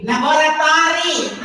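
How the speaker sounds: "Laboratory" loud and high, Filipino style; Filipino-accented "Laboratory", every open vowel sounded. Shown as a demonstration. Tutor shows how Filipinos say it, Filipino accent. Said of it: "And then we say".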